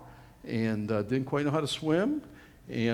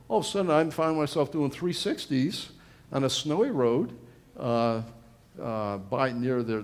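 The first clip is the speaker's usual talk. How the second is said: normal talking voice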